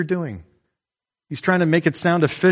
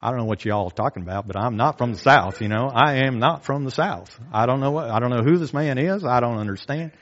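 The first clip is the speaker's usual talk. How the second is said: fast, hammed-up Southern denial; awful mock Southern accent; bad Southern accent. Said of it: "That was awful".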